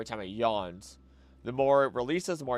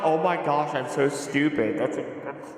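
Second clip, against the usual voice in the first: embarrassed; 3 semitones higher, 5 dB louder than usual. Real, not acted. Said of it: "I feel dumb".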